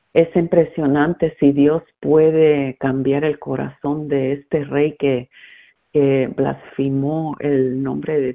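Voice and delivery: Spanish with an American accent; effortful American-accented Spanish. Real, not acted. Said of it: "por mi español tan pateado".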